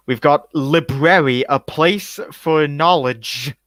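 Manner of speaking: each word stretched out slowly, rising at the end; slow drawn-out read. Shown as a demonstration. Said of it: "It was supposed to look like it was spelled bad".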